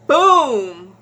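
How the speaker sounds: loud, drawn-out thud noise; imitated impact boom. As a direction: boom it out like a hard hit. Imitates head hitting the floor.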